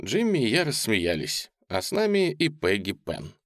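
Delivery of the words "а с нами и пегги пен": ordinary delivery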